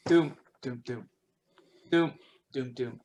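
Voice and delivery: dull "doom" beats in short groups; imitated rhythmic clanging. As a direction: voice a distant rhythmic thudding. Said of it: "the rhythm".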